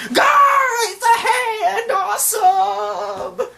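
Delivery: very high, loud drawn-out squeal; ecstatic Chopper. Retold or imitated. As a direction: shriek in cartoon delight, stretching the last word. Acts out Chopper's amazement.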